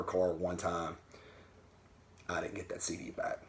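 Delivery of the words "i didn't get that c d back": a soft, breathy whispered confession; whispered aside. Real, not acted. Telling viewers his wife kept his CD, in a joking whisper. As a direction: whisper it like a guilty little secret.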